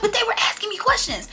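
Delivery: high, loud whiny friend voice; mimicking Coco upset. Friend Coco quoted in quarrel.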